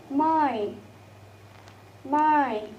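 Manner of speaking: "my" drawn out with falling pitch; example word demo. Shown as a demonstration. Teacher giving an example word, drawn-out pronunciation demo. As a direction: model "my", gliding through the vowel. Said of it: "as in the word of".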